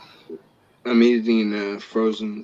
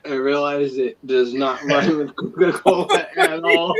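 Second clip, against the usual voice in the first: laughing; 3 semitones higher than usual. Real, not acted. Laughs at own joke.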